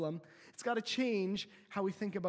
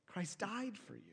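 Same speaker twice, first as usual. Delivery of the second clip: hushed drop; 8 dB quieter than usual. Acted. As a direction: let it fall to a hush. Repeat, drop to hush.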